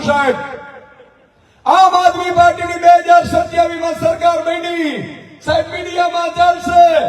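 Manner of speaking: ભીડ સામે ઊંચા અવાજે જોશીલું ભાષણ; fiery rally speech. Acted. Rally speech at full force.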